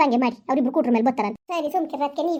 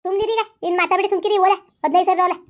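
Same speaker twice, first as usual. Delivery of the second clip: higher, louder scolding to shut him up; angry scolding; 4 semitones higher, 3 dB louder than usual. Acted. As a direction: cut him off with a raised, angry voice. Mother scolding son in quarrel.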